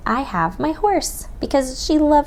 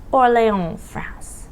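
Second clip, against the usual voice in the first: put-on French accent. Teacher models the city name for pupils, French accent. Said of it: "say it with your best French accent".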